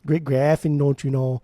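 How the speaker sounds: light Midwest Wisconsin lilt; a playful hint of Wisconsin accent. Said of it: "a Wisconsin accent".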